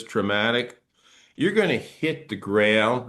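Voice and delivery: normal talking voice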